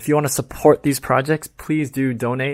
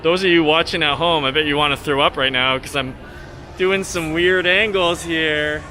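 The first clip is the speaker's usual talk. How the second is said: mock tourist vlogger. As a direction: lay the fake outrage on with a straight face. Satirical tour commentary.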